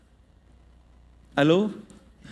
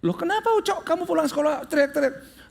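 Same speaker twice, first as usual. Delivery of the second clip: surprised mother; 7 semitones higher than usual. Retold or imitated. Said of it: "mother answering her son".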